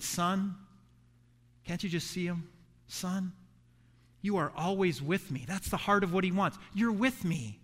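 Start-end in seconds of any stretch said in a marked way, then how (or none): 0.0-5.4 soft, gentle fatherly plea; tender father. Retold or imitated. Father gently pleading with his angry older son, softly. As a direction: coax the bitter son softly, like a loving father. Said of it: "he said".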